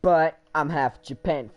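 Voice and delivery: a hammed-up Irish lilt; Irish accent. Shown as a demonstration. Gamer finishing his Irish-accent bit to a friend. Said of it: "make an accent of Irish".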